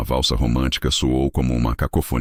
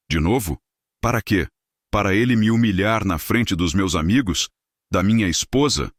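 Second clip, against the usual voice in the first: higher, bitter angry questions; mounting rage; 7 semitones higher than usual. A narrator's reading. Humiliated host before his friends, angry rising questions. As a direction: hurl each question in rising fury. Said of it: "Horácio estava tremendo de raiva".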